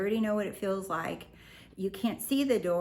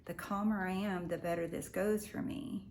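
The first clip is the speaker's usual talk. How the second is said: calm realization; 6 dB quieter than usual. Retold or imitated. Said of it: "He's like".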